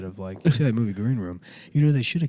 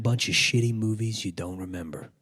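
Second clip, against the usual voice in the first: lightly voiced baritone actor; Steven Dorff. Comic posing as a forgotten actor, light baritone impression. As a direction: play a has-been actor introducing himself, lightly. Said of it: "Steven Dorff".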